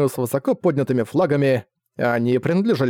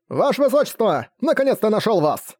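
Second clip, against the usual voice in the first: higher, breathless herald; urgent exclamation; 7 semitones higher than usual. Acted. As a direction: call out with relief. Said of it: "воскликнул вестовой".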